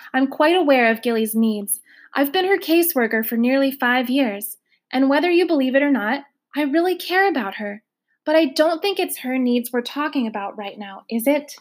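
a hint of the professional caseworker; lightly voiced firm caseworker. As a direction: push back calmly but firmly. Caseworker answering firmly.

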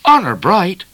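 high, loud mirthful assurance; laughed. A narrator's reading. O'Grady swearing it's true to Midnight, laughing. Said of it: "laughed O'Grady".

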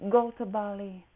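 put-on accent version of Go to Bali; mixed accent. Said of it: "five accents mixed".

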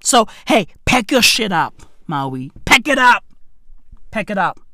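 imitating the power company warning about load shedding; mock power company. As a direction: play the utility company ordering everyone out. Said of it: "they're like".

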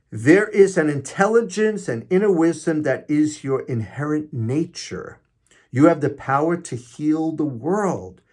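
deliberate, emphatic uplifting message; inspirational reading. Acted. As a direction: read it out as heartfelt encouragement.

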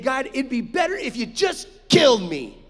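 retold angry outburst, mildly heated; mock exasperation building on the last words; mad complaint. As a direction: imitate a fed-up plea, punching the end. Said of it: "He's so mad about it".

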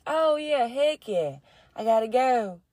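mock hyped. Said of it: "sharing it like".

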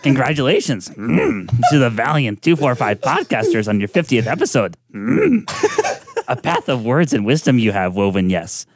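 Yoda with humming mms and a laugh or two; a lightly voiced, giggly Yoda. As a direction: play Yoda, hamming the mms. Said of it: "Gotta get in the character here".

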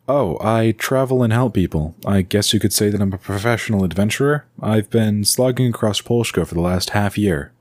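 put-on an upbeat young adventurer chatting over the noise; Loon, cheerful young adventurer. Loon's dialogue in the story.

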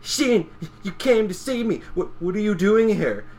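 lightly voiced surprised friend. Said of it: "Takachin goes".

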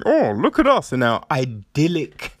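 hammed-up smugness; mock smug. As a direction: imitate self-satisfied villagers, stretching the praise. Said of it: "you're all smug going".

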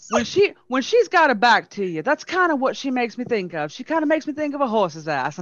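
catty shade in a mock Southern Belle accent. Wife mocking the other woman, imitated Southern Belle accent. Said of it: "that pure Southern Belle accent".

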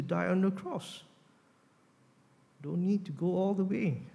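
mildly tempting sales pitch, swelling on the big promise; sweetening the deal. Acted. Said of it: "by sweetening the deal and saying".

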